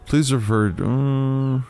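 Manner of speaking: clipped high formal reply; stern officer voice. Acted. Officer demanding proper address over radio, stiff and formal. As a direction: correct them with stiff authority. Voicing his cop character.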